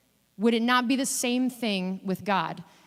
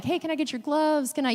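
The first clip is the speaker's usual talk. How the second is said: higher-pitched, mild imitated call-out; mock yell; 5 semitones higher than usual. Kids asking players for gloves after practice, mild mock yell. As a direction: call for attention without real volume. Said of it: "different people will yell out".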